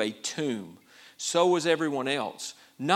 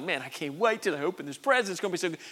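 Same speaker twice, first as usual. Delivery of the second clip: retold eager anticipation; 5 semitones higher, faster than usual. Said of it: "surprise somebody at a birthday party".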